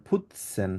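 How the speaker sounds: "putzen" with a soft dental t, not a hard t; soft Bengali t sound. Shown as a demonstration. Teacher demonstrates "putzen" for a student. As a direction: model "putzen" with a light Bengali ত. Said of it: "টি উচ্চারণ না করে ত উচ্চারণ করবেন".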